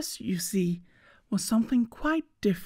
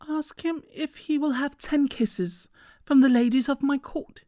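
higher, haughty little princess voice; cartoon princess; 5 semitones higher than usual. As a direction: play a spoiled, eager princess. Princess figure voiced in story.

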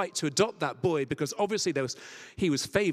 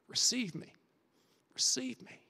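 soft whispered pleading, higher; gentle higher whisper; whispered plea; 6 semitones higher, 4 dB quieter than usual. Acted. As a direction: whisper the invitation, rising. Jesus pleading to listener.

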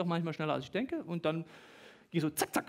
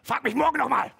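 fiancée's reply; 5 semitones higher, 8 dB louder than usual. Retold or imitated. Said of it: "Und so".

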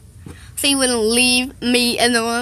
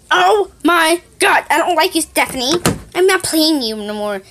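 exasperated quarrel; 4 semitones higher, 3 dB louder than usual. Acted. Kid quarrelling over game.

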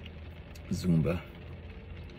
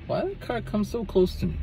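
startled; 13 semitones higher, 4 dB quieter than usual. Real, not acted. Startled by a passing car.

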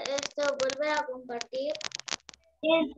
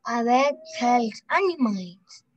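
slow, careful echo of "A vet helps animals."; slow repeat. Shown as a demonstration. Student repeating slowly after the teacher. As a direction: copy the teacher's slow pace.

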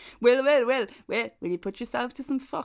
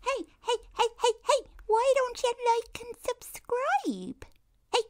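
put-on creepy little girl; 13 semitones higher than usual. The speaker doing a creepy little girl asking listeners to subscribe. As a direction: coo it like a creepy child ghost. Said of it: "that's so creepy".

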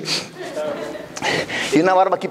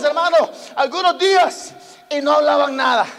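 full-force preaching. Real, not acted. Preacher praising Job's integrity to the church, full-force preaching. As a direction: proclaim it to the whole congregation.

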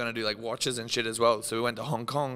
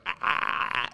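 imitated panting; slower than usual. Imitates own noise in story.

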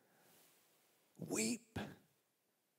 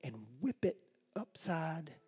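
mock threat; 5 dB quieter than usual. Imagined threatening Jesus.

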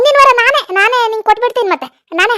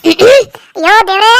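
disgusted groan; 2 semitones lower, 5 dB louder, slower than usual. Acted. Wife disgusted at husband.

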